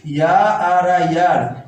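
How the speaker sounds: slow spelled-out या, आर, आ, यार; each piece of या, आर, आ, यार said on its own; sounding out the word. Shown as a demonstration. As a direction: break यार into या, आर, आ before saying यार. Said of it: "इसको पढ़ते हैं यार".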